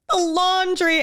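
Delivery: high mock wail; self-mocking tearful whine; imitated crying. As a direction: mimic breaking down over something small. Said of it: "and then crying".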